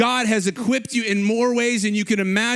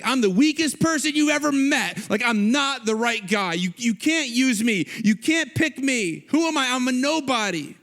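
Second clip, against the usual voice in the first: higher, whiny self-deprecation; mock self-pitying bragging; 4 semitones higher than usual. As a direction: brag about being weak, lightly hammed-up. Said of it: "he's bragging about how weak he is".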